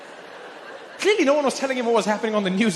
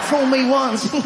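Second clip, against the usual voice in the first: chuckling Bush line; Bush impression; 3 semitones higher, 3 dB louder, slower than usual. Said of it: "that weird chuckly thing".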